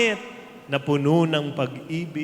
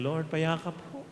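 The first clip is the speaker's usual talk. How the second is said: soft plea; 6 dB quieter than usual. Pretend. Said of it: "Tapos sabihin natin".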